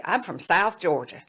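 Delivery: put-on South Georgia accent; Southern accent. Medical student says where he's from, Southern accent. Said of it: "he had this Southern accent".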